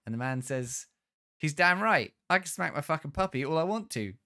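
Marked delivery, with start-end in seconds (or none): 1.4-4.1 mock-indignant, louder and higher; indignant man. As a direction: double down with a hammed-up snarl. Man insisting on smacking puppy.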